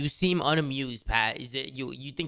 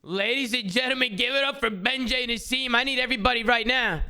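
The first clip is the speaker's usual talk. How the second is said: announcer voice; 7 semitones higher than usual. Acted. Introducing putter like announcer.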